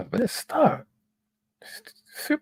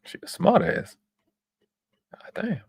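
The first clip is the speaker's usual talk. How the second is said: soft unvoiced whisper; whispered God damn; whispered aside; 4 dB quieter than usual. Real, not acted. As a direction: breathe it under your breath. Muttered reaction.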